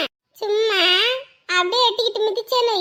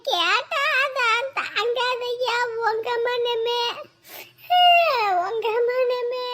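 mock lament; much slower than usual. Mock self-pitying lament.

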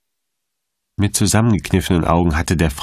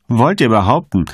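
raised, indignant challenge; angry outburst; 6 semitones higher, 4 dB louder than usual. A narrator's reading. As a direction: flare up at him. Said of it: "brauste der Domherr auf".

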